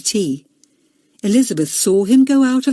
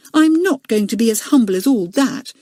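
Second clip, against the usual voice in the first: defiant; 4 semitones higher than usual. Acted. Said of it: "he said".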